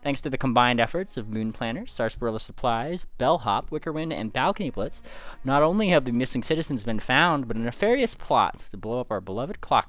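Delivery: GM reading a newspaper report aloud; news article read. Acted. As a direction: announce it like a reporter.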